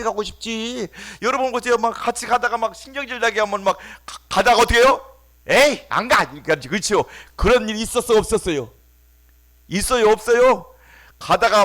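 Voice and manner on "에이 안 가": loud, annoyed huff; fed-up refusal. Acted. Companion quitting the walk in a loud huff. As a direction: spit out the refusal in irritation.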